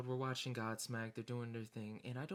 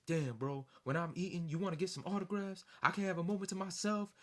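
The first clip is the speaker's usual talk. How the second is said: louder, rising irritated rant; heated; 7 semitones higher, 5 dB louder than usual. Retold or imitated. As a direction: snap at the fan for interrupting the meal. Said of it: "the other guy got heated".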